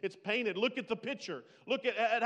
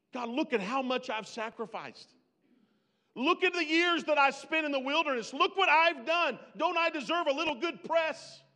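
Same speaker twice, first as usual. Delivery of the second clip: builds from a higher whine to a loud, slowed plea; whiny self-pity; 8 semitones higher, 5 dB louder than usual. Pretend. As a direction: demand credit like a wronged child. Voicing the self-seeking flesh.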